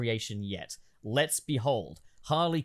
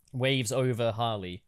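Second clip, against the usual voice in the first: ordinary talk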